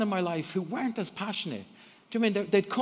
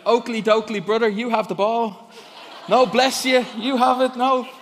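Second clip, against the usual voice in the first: higher, louder goody-goody neighbour voice, hammed up; mock Ned Flanders; 5 semitones higher, 8 dB louder than usual. Preacher mocking how he pictured Christian footballers, in a higher, louder goody-goody voice. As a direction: play an overly polite cartoon Christian passing the ball. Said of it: "my idea of Christians was like Ned Flanders".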